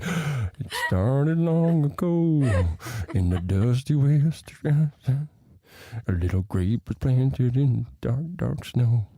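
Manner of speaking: very slow, grand storybook narration; epic fantasy narrator. Pretend. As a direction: intone it like an ancient legend. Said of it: "I'm just like".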